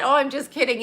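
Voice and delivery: lightly voiced mother taking back a dig; mocking mom. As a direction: toss it off like a fake apology. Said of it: "You know when they say that?".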